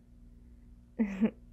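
short knowing chuckle. Acted. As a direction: chuckle teasingly. Teasing the partner.

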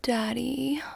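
ordinary talk, nothing marked

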